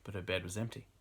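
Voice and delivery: measured read-aloud narration; story narration. A narrator's reading. Reading bad erotic fiction to an audience, story narration. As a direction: narrate the passage like an audiobook.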